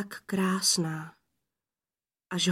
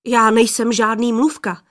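loud, raised-pitch protest from an eager lad; crying out; 3 semitones higher, 8 dB louder than usual. A narrator's reading. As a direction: call it out indignantly, with force. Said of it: "křikl mládenec". (zvolání, hlasitě a důrazně)

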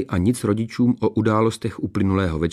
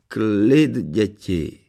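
measured royal rebuke; admonishing king; much slower than usual. A narrator's reading. King hushing his quarrelling daughters, admonishing. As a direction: call the children to order. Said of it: "napomenul je pan král".

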